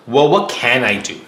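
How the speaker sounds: mildly puzzled question to himself, stressed opening; thinking to himself. Acted. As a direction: wonder to yourself what is left to try. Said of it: "Jack thinks to himself".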